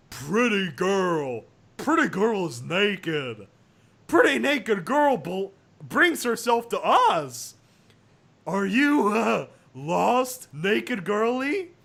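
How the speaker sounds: slow, dull leering brute voice; dim thug. Acted. Thuggish boys to naked Sunset, slow dim leer.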